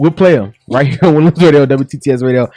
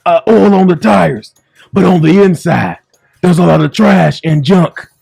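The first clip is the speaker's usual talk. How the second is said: Bishop D H Jakes sermon; 2 semitones higher than usual. Pretend. Bishop preaching to the audience, sermon cadence. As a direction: preach the shiny-car parable. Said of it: "Bishop D H Jakes".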